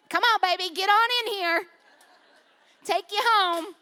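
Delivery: a hint of redneck twang; lightly put-on redneck accent. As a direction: slip into a redneck voice for a moment. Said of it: "my redneck voice just came out".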